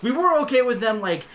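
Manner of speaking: chattering heads, high bursts dropping to quick asides; rambling two-headed dragon. Acted. Two-headed king offers Black Cats a job, lightly voiced rambling chatter. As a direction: talk over yourself, eagerly agreeing and correcting.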